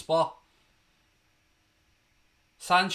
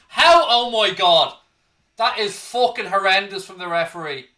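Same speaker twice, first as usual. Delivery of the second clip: loud, high, furious disbelief at the referee; outraged; 4 semitones higher, 7 dB louder than usual. Real, not acted. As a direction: bellow your outrage at a blatant foul. Outraged at referee's missed foul.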